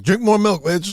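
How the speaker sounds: high, loud comic order; mock scolding. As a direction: shout it as blunt mock advice. Riffing the doctor's blunt advice.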